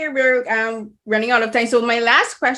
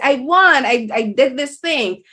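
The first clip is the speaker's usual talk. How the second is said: louder, proud declaration; mild triumphant shout; 3 semitones higher, 3 dB louder, slower than usual. Retold or imitated. Host retells the heroine's victory, mock triumphant shout. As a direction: claim the win out loud, half-acted. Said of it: "raising her voice and being loud and say".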